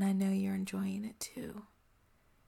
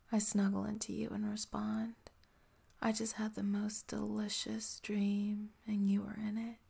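ASMR whisper. Acted. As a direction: breathe every word close to the mic.

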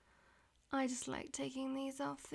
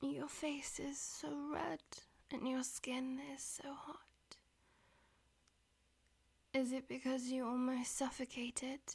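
whispering. Acted. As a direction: whisper it close to the ear. Whispered throughout.

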